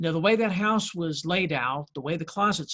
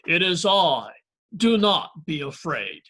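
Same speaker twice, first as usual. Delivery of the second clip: louder, slow, solemn mock pronouncement; dad quoting Jesus; 5 dB louder than usual. Dad teasing his startled son, mock solemn and louder. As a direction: ham up the holy line in the dark. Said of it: "my dad delivered the classic line".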